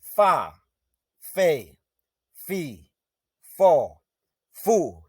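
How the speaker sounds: crisp, separated syllables fa fe fi fo fu; teacher reciting Zulu syllables; Zulu syllable drill. Shown as a demonstration. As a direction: punch each Zulu syllable on its own. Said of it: "So it reads thus".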